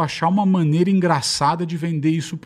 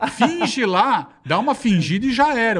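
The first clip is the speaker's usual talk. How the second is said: higher mock voice of a pushy friend; imitating Bola; 6 semitones higher, slower than usual. Retelling how Bola coaxed him to fake it, higher mock voice. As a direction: pitch it up, breezy and persuasive. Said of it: "Ele falou".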